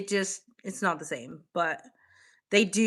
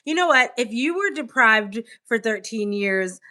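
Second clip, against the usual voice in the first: mock outrage; 3 semitones higher, 5 dB louder than usual. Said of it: "mock offense continues".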